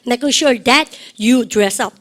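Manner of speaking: very slow, each word spaced for the class; drawn out so students can repeat after; very slow model phrase. Shown as a demonstration. Teacher modelling for class repetition, very slow. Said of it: "시작".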